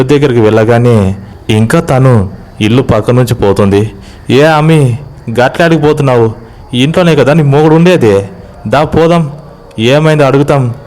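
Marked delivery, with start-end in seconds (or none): 4.3-10.7 higher-pitched calling and questioning; puzzled villager. Acted. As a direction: call after her, pitched up and puzzled. Villager calls after the wife.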